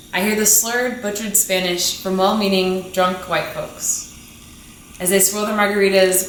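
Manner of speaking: measured, deliberate poetry recital; spoken-word poem. Acted. Poet reciting to the audience, in a measured spoken-word delivery. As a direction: let each image land, paced like a slam poem.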